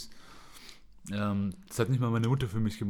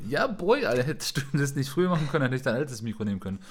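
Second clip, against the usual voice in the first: exasperated outburst; 5 semitones higher, 5 dB louder than usual. Retold or imitated. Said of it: "Ich so".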